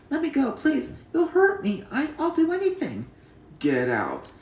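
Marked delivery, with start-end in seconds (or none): 0.1-3.1 higher, louder desperate pleading; begging villain. Acted. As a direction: beg for your life. Villain begs for his life.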